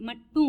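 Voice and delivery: मट्टू ending on a rising "oo"; silent final m. Shown as a demonstration. Teacher repeating for learners, मट्टू with final "oo". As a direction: say मट्टू without closing on m. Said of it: "ऊ sound आनी चाहिए".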